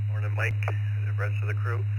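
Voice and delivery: talking with a mouth full. Real, not acted. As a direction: speak through a mouthful of breakfast. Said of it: "you caught me with my mouth full here".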